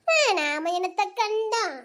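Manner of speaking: drawn-out weary lament; slow, fed-up complaint; world-weary. Acted. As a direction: stretch it out with resigned weariness. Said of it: "ரொம்ப தான் சாதிச்சுக்கிட்ட".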